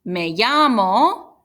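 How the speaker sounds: slow, careful Spanish model; model phrase. Shown as a demonstration. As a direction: say it slowly for students to copy. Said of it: "So you would say".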